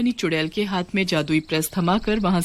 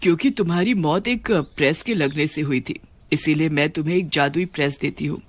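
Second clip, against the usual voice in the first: witch queen voice. Acted. (नीची आवाज़ में आदेश देती चुड़ैल रानी)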